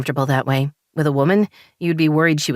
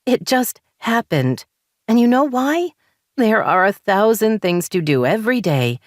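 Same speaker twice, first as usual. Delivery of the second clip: higher, frustrated rising voice; wife venting frustration at husband, higher and heated; 4 semitones higher than usual. Acted. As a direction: let the frustration boil over. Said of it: "frustration bubbling up inside".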